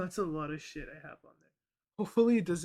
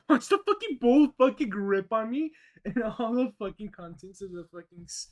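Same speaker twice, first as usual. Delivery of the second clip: laughing; 4 semitones higher, 8 dB louder than usual. Real, not acted. Bowl spilling soup, laughing.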